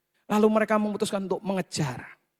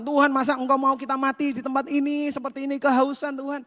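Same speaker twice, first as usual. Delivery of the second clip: higher, mock-whining complaint; grumbling to God; 5 semitones higher than usual. Thirsty Israelites nagging God, higher mock whine. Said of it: "Ngomel sama Tuhan".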